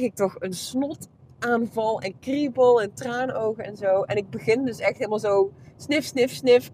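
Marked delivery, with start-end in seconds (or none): 5.8-6.7 imitated sniffing. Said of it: "keihard te sniffen in die microfoon".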